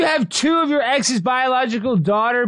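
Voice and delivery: stunned friend shouting in disbelief; amazed shout. Real, not acted. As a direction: shout it out in real astonishment. Amazed at seven kids.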